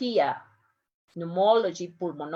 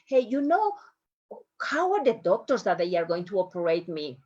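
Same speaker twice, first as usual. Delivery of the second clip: pretend patient; faster than usual. Teacher pretending to be a patient asking about doctors. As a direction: ask the doctor about your surgeons, mildly anxious. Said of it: "Pretend that I am a patient".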